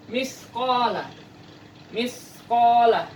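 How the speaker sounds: "Miskola" with a clear s, slowly; careful Arabic sa articulation; Arabic sa pronunciation. Shown as a demonstration. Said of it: "Harus dibaca dengan makrosnya huruf sa".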